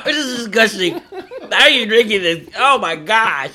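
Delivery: loud, high disgusted outburst after coughing; after bitter medicine. Real, not acted. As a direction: spit the words out after a bitter gulp.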